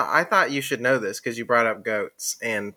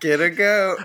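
put-on Jamaican accent; 4 semitones higher than usual. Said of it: "in the Jamaican accent".

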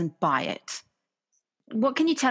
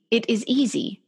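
teacher's calm assurance; 4 semitones higher than usual. Retold or imitated. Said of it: "it was the way he said it".

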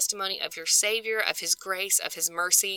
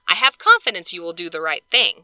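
louder, pointed teacher tone; 6 dB louder than usual. Retold or imitated. Paul writing to Philemon in a louder teacher voice. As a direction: talk down like a teacher to a class. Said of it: "that kind of teacher voice".

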